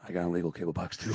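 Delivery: low, soft, quick admission; furtive confession. Retold or imitated. Eddie admitting his own illegal cable box, furtive. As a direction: confide it as if someone might overhear. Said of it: "he looks both ways".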